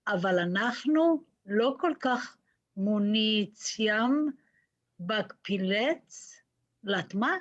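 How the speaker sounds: halting read-aloud, word by word with pauses; struggling pupil decoding a page aloud; like a Hebrew school student. Real, not acted. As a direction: sound out each scrambled word like a beginner reader. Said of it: "Read like a Hebrew school student".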